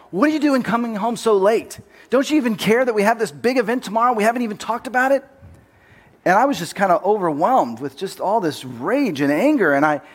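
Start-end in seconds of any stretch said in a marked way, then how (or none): 0.1-5.2 higher, mock angry father yelling; retold yelling. Father scolding his late son, mild mock yell. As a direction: play the dad scolding, not full volume. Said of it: "he just starts yelling at me".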